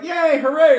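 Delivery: put-on high, loud kid-like hooray; mock cheer. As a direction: cheer along with exaggerated glee. Acts out himself cheering along.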